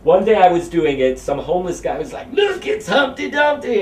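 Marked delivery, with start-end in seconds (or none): 2.3-3.8 yelling. Retold or imitated. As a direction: yell it out like a heckler. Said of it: "turned into a yelling match".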